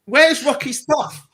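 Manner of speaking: high, slow baffled question, mildly acted; puzzled and drawn out, searching for the lost stuff; confused. Realising the records are gone, asks slowly in confusion. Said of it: "uh, confused at best".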